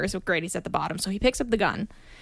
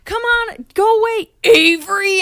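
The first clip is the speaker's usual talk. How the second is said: high, louder pushy plea; high pleading voice; 11 semitones higher, 7 dB louder than usual. Retold or imitated. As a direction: shoo him off in a put-on voice. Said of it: "And she's like".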